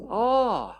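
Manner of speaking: high, loud "oh" that swoops down; surprised gasp. Shown as a demonstration. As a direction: react like an audience caught by a twist. Demonstrates listeners' reaction to a surprise element.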